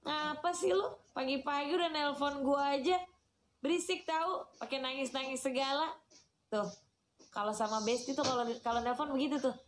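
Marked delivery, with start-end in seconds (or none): 0.0-5.9 higher, irritated friend on the phone; a friend fed up with an early-morning call; annoyed friend. Retold or imitated. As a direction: brush off a whiny caller. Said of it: "Belum tentu tuh temennya lagi ngedengerin".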